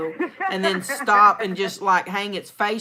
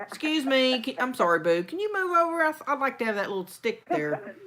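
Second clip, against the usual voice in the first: lightly high, sweetly polite ask; mock-polite asking a bigfoot to shift; mock polite plea; 5 semitones higher than usual. Teasing friend voices polite plea to bigfoot.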